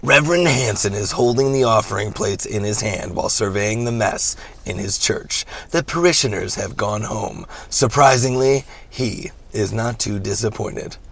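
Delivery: dramatic movie narrator read; movie trailer voice. Acted. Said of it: "I'll read it in my, my movie voice".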